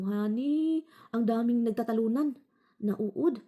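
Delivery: high, slowed alarm; worried call to her husband. Retold or imitated. Telling her husband about the jumping worms, alarmed. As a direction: sound the alarm to Honey.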